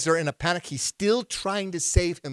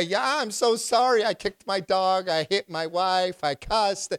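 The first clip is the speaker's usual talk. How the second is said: mock apology; 6 semitones higher, 4 dB louder, slower than usual.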